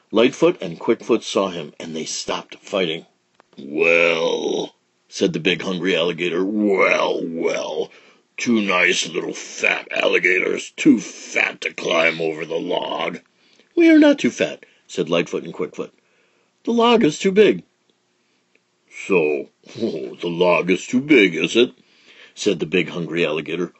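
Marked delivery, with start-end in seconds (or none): 3.6-13.2 slow sly big alligator; lightly voiced sly crocodile. 13.7-14.6 squeaky indignant protest; high indignant little ones; high child voice. Acted. 16.6-17.6 squeaky little alligator; high defensive child. Acted. 19.1-21.7 slow sly chuckle; grinning crocodile, slowly. Acted. Big alligator chuckling.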